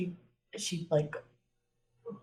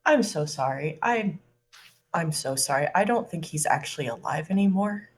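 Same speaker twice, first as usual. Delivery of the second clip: awkward, nervous. Acted. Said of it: "very awkwardly and very nervously".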